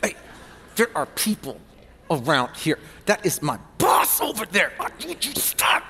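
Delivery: mock couple whisper-arguing in a restaurant; whisper argue. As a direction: quarrel in a fierce stage whisper. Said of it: "they are whisper arguing".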